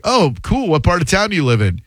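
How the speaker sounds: retold upbeat curiosity; friendly interest. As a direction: act eager to make small talk. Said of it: "I'm like".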